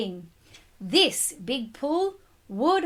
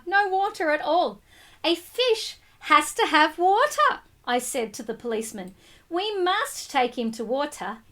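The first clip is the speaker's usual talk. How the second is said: put-on lively storybook reading to children; read-aloud narration. A narrator's reading. Teacher reading a picture book to the class, lively read-aloud.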